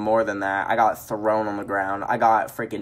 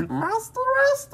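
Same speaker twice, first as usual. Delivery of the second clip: laughing squeal. Real, not acted.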